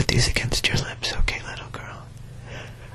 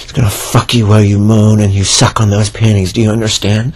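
louder, pressing commands; insistent louder orders; 5 dB louder than usual. Acted. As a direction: push the words out louder.

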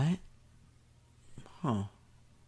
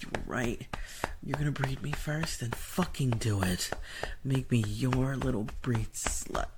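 whispering. Acted. Whispered roleplay.

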